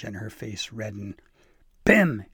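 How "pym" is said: loud, high-pitched thunderous call; thundering. A narrator's reading. Elf pretending to be the old tyrant, thundering. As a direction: bellow the name with mock authority. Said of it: "she thundered".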